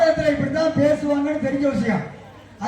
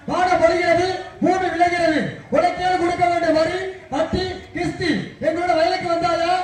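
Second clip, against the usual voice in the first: put-on child reciting; 4 semitones higher than usual. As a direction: declaim like a kid in a fancy dress contest. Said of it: "அந்த பிள்ளை பேசும் பாருங்க, எப்படி பேசும்?".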